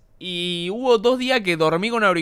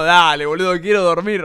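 annoyed plea; 6 dB louder than usual. Retold or imitated. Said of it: "Tipo, ya es como".

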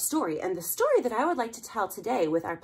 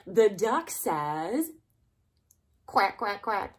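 put-on reading to a toddler; 4 dB louder, much slower than usual. Shown as a demonstration.

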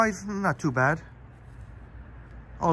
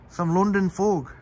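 put-on slow, second try at a British accent, London drawn out; 2 semitones higher, slower than usual. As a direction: have another go at the British accent, slowly. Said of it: "I really gotta work on my, uh, British accent".

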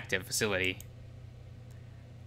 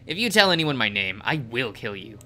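raised, heated threat; threatening; 4 dB louder than usual. Acted. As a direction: snap out a threat. Threatening over secret name.

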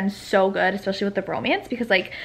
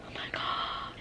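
hushed, airy gasp of words; breathless whisper; 15 dB quieter, slower than usual. Real, not acted. Reader shocked by the cover spoiler, stunned whisper. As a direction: barely voice it, stunned.

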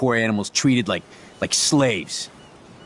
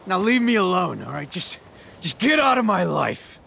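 higher, strained plea to be left alone; worn-out anger, pitch raised; hurt, angry dismissal; 4 semitones higher than usual. Acted. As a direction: send them off in pained anger. Wounded Frank sends them away.

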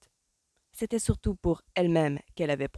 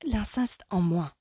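dry quip; 4 semitones higher, slower than usual. A narrator's reading. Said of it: "précisa Pénélope".

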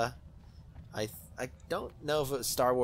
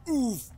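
imitated Minecraft oof; 11 semitones higher, 4 dB louder than usual. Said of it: "Can I get a Minecraft Steve".

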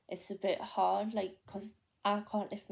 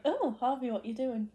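higher, louder startled "oh"; sudden lift, then easing back; surprised aside to pet; 4 semitones higher, 3 dB louder than usual. Real, not acted. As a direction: break off, amused, to question a pet. Breaks off to address pet.

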